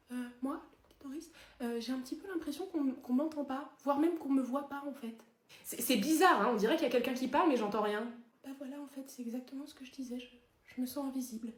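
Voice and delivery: very soft, hesitant little voice; timid, overlooked. Acted. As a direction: speak up meekly, expecting to be ignored. Doris, ignorée, se sent invisible.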